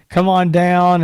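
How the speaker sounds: loud imitation of a car-lot pitchman; mock sale holler. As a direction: holler it like a fire-sale huckster.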